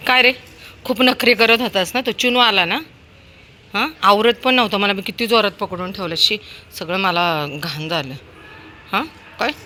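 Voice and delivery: loud, high telling-off; scolding the dog. Real, not acted. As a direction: scold the naughty pet. Owner scolds dog after walk.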